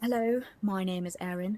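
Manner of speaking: put-on, quasi-British accent. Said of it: "I speak in that quasi-British accent".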